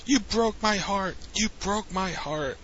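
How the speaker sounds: half-hearted imitation of a heartbroken scream; mock scream. Recapper imitating A J screaming at Dolph Ziggler, mock scream. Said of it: "just starts screaming".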